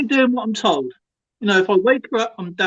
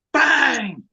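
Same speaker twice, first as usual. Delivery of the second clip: higher-pitched, sudden "bang" exclamation; imitated big bang; 6 semitones higher than usual. Man acting out the bang heard on last night's stream, imitated bang. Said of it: "we heard the big bang".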